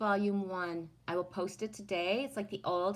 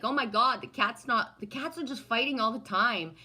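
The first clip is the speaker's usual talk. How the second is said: louder, higher mock alarm; retold alarm; 5 semitones higher, 5 dB louder than usual. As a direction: exclaim it as if appalled by the cats. Retells her alarm at cats.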